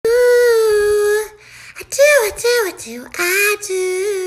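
high excited squeal. Acted. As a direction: squeal it with delight.

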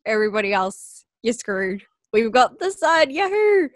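sarcastic boast. Retold or imitated. Mocking a silly list about Australia, sarcastic bragging. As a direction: ham up fake Aussie pride.

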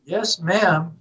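lightly put-on Southern accent; a hint of hammed-up Southern courtesy; best Southern accent. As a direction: answer politely in an imitated Southern accent. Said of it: "in my best Southern accent".

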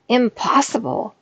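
indignant ogre shout; ogre cries out. A narrator's reading. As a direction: fling the word back in offended disbelief. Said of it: "cried the ogre".

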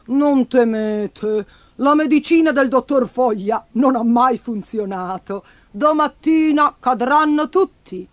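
lightly voiced shopkeeper, drawn-out opening; unhurried, lightly acted reassurance; shopkeeper figure, reassuring. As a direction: reassure them slowly in a mild character voice.

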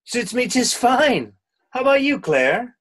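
sarcastic. Acted. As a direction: lay the sarcasm on thick. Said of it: "Don't be sarcastic".

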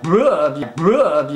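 imitating him spitting out. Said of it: "he spits the stuff out like".

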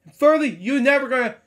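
high-pitched, loud mock telling-off; exasperated rant. Reader telling off the book's kangaroo, exasperated. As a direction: count off complaints in a high, indignant voice.

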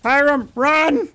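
high, loud yelling to flee; panicked shout. Real, not acted. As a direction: scream at your friend to run. Fleeing an attacking creature.

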